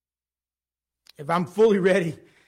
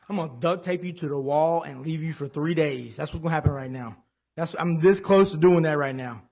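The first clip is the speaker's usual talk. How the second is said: mock threat. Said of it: "I just want".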